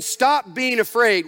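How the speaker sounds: slow, stern stop being afraid; a harsh order to quit fearing; stern command. Shown as a demonstration. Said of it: "He's not saying".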